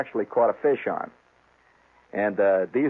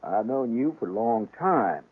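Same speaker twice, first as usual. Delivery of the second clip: flat Maine voice. Retold or imitated. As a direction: drag it out like a Maine bait seller, x0.7. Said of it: "it's the flat voice".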